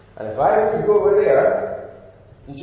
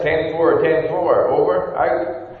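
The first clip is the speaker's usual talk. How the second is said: ten four hammed up like a radio call, slower on over, out; mock walkie-talkie talk; 4 dB louder, slower than usual. Shown as a demonstration. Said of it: "I can't go like this".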